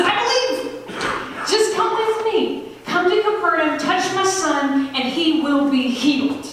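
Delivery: pleading father. Acted. Father begging Jesus to come.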